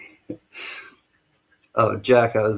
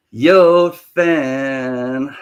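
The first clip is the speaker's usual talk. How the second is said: a loud hail, then the voice drops; loud call-out; 6 dB louder than usual. Real, not acted. Streamer greeting his friend in the east, loud call. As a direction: holler the greeting and let it fall.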